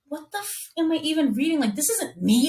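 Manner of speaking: a hint of horrified surprise; mock appalled at her own words; shocked disbelief. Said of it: "I'm reading it and I'm like".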